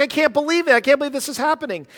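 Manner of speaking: high, loud astonished exclaim; shocked Regis. Retold or imitated. Pastor imitating Regis shocked on live TV, high and loud. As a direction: squeal it like you can't believe your luck. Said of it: "He's shocked".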